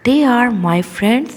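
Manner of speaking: "they are my friends" slowly, "they are" run together as "they're"; joined contraction. Shown as a demonstration. Teacher modelling the sentence for pupils, "they are" contracted to "they're". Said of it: "इसे कैसे pronounce करेंगे".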